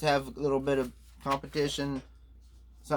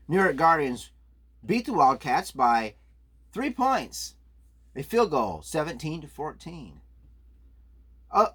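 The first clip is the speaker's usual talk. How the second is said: sportscaster voice. Acted. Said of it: "I'm gonna do it in my sportscaster voice".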